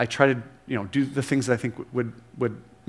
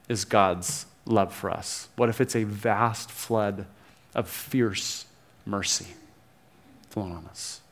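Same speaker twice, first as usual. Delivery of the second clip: hushed wonder; 6 semitones lower, 5 dB quieter than usual. Real, not acted. Soft climax of sermon.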